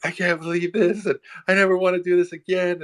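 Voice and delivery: high, loud mock yelling at a client; retold angry yell. Yelling at the gaslighting client down the phone, angry. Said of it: "I was yelling off the top of my lung".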